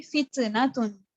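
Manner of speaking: फित्नतुन with a bouncing echo vowel after the first T; qalqalah on T. Shown as a demonstration. Teacher showing the mistaken qalqalah, फित्नतुन with a bounced T. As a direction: bounce the T, like fit-uh-natun, in फित्नतुन. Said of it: "अगर मैंने इसके ऊपर कलकला किया होता".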